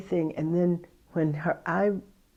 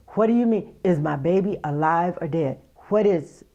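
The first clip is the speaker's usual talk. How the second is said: raised frantic voice; 6 dB louder than usual. Retold or imitated. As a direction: cry out desperately, voice pitched up. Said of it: "I, I raised my".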